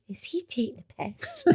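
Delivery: squeaky laugh through the words; laughing disbelief. Retold or imitated. To herself after the director's offer, laughing in disbelief. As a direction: laugh it out, unable to believe it.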